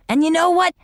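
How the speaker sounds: high, eager little dog. A narrator's reading. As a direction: lean in to share.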